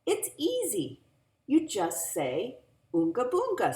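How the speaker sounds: put-on high, loud proud kid; big brother explaining. A narrator's reading. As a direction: show off the trick cheerfully. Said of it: "said Daniel".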